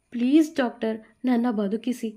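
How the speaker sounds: a touch of begging on please doctor; mildly pleading for her life. Acted. Bhuvi begging the doctor to save her, pleading. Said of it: "ಮತ್ತೆ ಕೈ ಮುಗಿದು ಬೇಡಿಕೊಂಡಳು".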